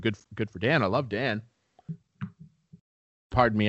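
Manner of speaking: talking through a mouthful of seeds; words round a bite of sunflower seeds; chewing sunflower seeds. Real, not acted. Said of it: "I'm chewing sunflower seeds".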